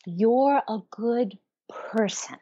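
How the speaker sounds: slow, hushed reassurance; soothing self-talk. Shown as a demonstration. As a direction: reassure yourself gently and slowly. Models kind self-talk, stroking.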